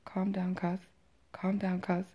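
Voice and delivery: softly urging restraint; retold calming cousin. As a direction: re-enact a cousin hushing someone. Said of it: "she's like".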